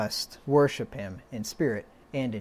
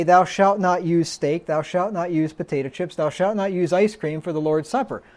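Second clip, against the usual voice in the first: mock commandment; 3 semitones higher than usual. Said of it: "He didn't have to say".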